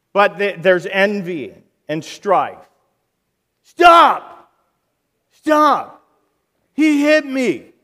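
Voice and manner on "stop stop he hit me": put-on high, loud child yelling stop; whiny child. Preacher mimics quarreling child, high whiny yell. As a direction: play a kid tattling on a sibling.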